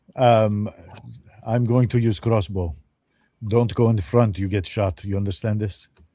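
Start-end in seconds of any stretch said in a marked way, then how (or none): 1.5-5.9 put-on Slovenian accent. A player speaks as their dwarf to a sprite companion: Slovenian accent. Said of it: "the dwarf is Slovenian".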